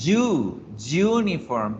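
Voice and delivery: "uniform" begun with a consonant Y, as in yuca; initial Y sound. Shown as a demonstration. Teacher isolates the first sound, "uniform" starting "yu". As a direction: open "uniform" on a firm "yu". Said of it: "se pronuncia como la Y de yuca".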